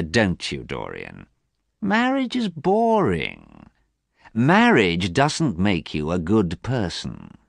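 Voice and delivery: lightly voiced world-weary Harry; slow and bored on marriage; Harry's languid voice.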